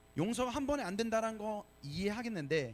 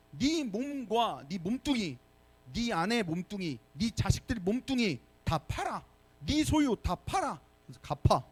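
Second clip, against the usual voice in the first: slow, pressing demand to sell everything; a master laying down harsh terms; mock stern master; 2 semitones higher than usual. Master ordering his debtor servant, stern and slow. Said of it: "주인이 어떻게 해요? 종에게".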